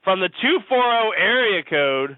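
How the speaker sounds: slow, showy announcer reading out the area code; radio host announcing. Pretend. Hosting a pretend radio show, slow announcer voice. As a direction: announce the caller like a DJ.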